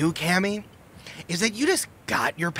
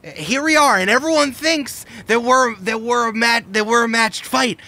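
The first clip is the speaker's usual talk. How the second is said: bitter rival rant; 7 semitones higher than usual. Acted. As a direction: lecture a rival with contempt. Rival's heated villain monologue.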